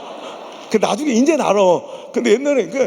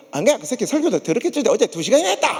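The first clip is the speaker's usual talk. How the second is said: Gyeongsang impression. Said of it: "경상도 사람은 뭐".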